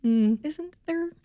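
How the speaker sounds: high, drawn-out questioning doubt; coy scepticism. Retold or imitated. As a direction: muse suggestively, stretching it out high. Quoting her own sceptical reaction.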